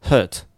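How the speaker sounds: "hurt" with a muffled er and no r; British-style "hurt", closed long vowel. Shown as a demonstration. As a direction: say "hurt" with mouth barely open. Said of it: "イギリスっぽい音".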